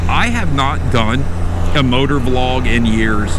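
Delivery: talking through hiccups; hiccupping between words. Real, not acted. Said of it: "here are the hiccups".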